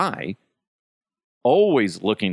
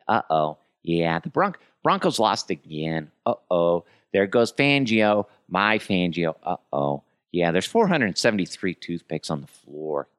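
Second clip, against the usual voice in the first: Rain Man; 3 semitones lower than usual. Retold or imitated. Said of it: "Basically Rain Man".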